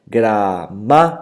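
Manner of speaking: gra-MÁ-ti-ca, devagar, marcando o má; divisão silábica. Shown as a demonstration. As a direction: separe as sílabas com calma. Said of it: "é a sílaba ma, é forte". (gramática silabada devagar)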